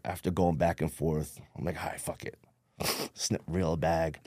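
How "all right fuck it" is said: breathy half-whispered giving in; resigned whisper. Retold or imitated. Caving to his friend's pressure at the party, in a whisper. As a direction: let it slip out under your breath, beaten.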